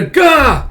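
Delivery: high, loud "gah!"; mock startled yell. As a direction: yelp as if startled by a crash. Scream heard after a crash.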